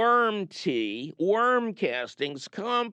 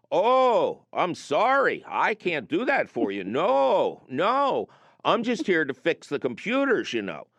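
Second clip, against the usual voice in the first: put-on Minnesota accent. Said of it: "it wasn't just Prairie Home Companion".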